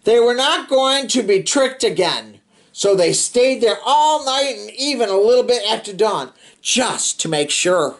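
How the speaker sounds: put-on steady read-aloud narration for kids; storybook reading. A narrator's reading. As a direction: read it like a bedtime picture book. Reading picture book to children.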